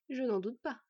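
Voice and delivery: mildly soothing, with a smile. Acted. Fenn placating the offended smith, soothingly. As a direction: humour him gently, smiling. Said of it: "l'apaisa Fenn avec un sourire".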